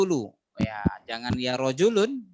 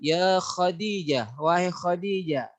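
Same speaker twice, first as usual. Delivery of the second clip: calling out; slower than usual. Shown as a demonstration. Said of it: "huruf untuk memanggil".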